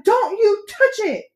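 very high, slow warning cry; alarmed shout. A narrator's reading. Boy warns trumpeter off the goo, crying out. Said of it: "Bartholomew shouted".

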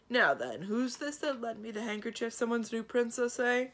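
hard-of-hearing elder inquiring loudly; genial old dragon. Acted. Old dragon asking about the handkerchief's lender, loud and curious.

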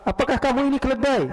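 high, indignant question; mock outrage pitched well up; retold shouting. Sleeper asking the caliph who trod on him, shouting. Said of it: "Teriak dia".

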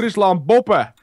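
mock Frisian regional slogan; Frisian accent. Shown as a demonstration. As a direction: proclaim it in put-on Frisian. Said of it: "Kun je Fries".

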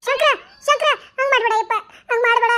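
frantic pleading, calling her son back; desperate crying out. Acted. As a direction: beg him to stop, voice cracking. Mother cries out to son. (ಮಗನನ್ನು ತಡೆಯಲು ಕಂಗಾಲಾಗಿ ಕೂಗುವ ತಾಯಿ)

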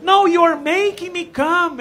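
put-on girl in bed correcting him; imitating girlfriend. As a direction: correct him, mock breathless. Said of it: "she was like".

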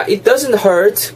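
"It doesn't hurt" said as its own chunk, cut off before "to try"; separated phrasing. Shown as a demonstration. Teacher showing learners where to split, separated phrasing. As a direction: say "It doesn't hurt" slowly, then break. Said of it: "분명히 이렇게 자르고".

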